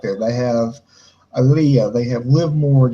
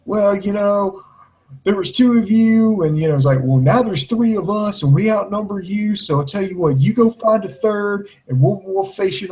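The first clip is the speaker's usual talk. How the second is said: mock Jersey accent, higher pitched; hammed-up Jersey promo voice, raised in pitch; bad Jersey accent; 5 semitones higher than usual. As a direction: imitate her with a terrible Jersey accent. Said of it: "in the worst Jersey accent".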